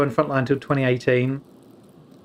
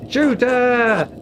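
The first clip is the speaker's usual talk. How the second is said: louder, higher shout through a laugh; laughing mock shout; 11 semitones higher, 5 dB louder than usual. Streamer repeating the joke order while laughing. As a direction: shout it again, cracking up. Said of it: "repeat while laughing".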